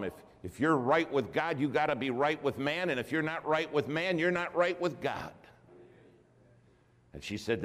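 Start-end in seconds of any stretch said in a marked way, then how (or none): 0.0-5.3 higher, building rise; lightly voiced church lady preaching. Lady's preaching retold.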